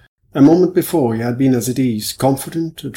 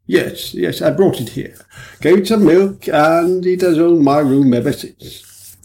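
lightly voiced hearty policeman, slow and louder; booming, easygoing police officer; a touch of a jovial superintendent; genial superintendent; 5 semitones higher, 4 dB louder, slower than usual. Superintendent answers kindly.

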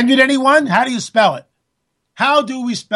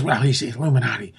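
mocking emailer; 9 semitones lower, 7 dB quieter than usual. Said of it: "please don't give me the emails".

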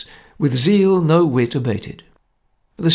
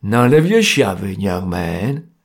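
severe; 4 semitones lower, 4 dB louder, slower than usual. A narrator's reading. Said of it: "said Jerry severely".

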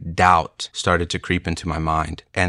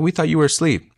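higher, mock-startled retelling; hammed-up surprise, higher; startled quote; 9 semitones higher than usual. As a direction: play the friends caught off guard, pitched up. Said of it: "They're like".

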